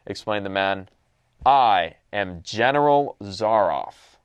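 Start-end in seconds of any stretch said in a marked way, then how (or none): 1.5-4.2 slow, deliberate aristocrat introducing himself; stately general with a slight accent; cultivated, accented general. Acted. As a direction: announce the name slowly and precisely, with cultivated poise. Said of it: "cultivated voice, marked by a slight accent".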